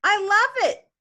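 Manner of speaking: a hint of a hooting, delighted uncle; lightly voiced uncle hooting. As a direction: blurt it out loud like a tickled uncle. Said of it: "Fred hooted".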